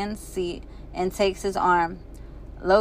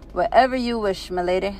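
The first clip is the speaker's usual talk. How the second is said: put-on lightly done British accent; playful British butler. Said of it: "he says with a British accent".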